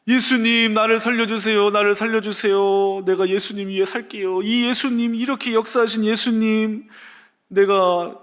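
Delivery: 조금 높고 큰 소리로 애원하는 기도; 무릎 꿇고 살려 달라고 비는 듯; 간절한 기도. Retold or imitated. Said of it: "막 간절하게 막 기도하기". (살짝 높인 간절한 기도)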